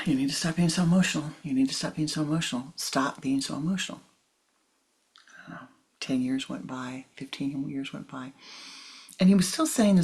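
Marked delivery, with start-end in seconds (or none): 0.1-4.0 fast, mechanical repeat of the same line; rattled-off repeated scolding. Retold or imitated. Guru repeating his advice to student, rapid and rote. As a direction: rattle it off like a broken record. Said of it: "Every time I'd have a one-on-one".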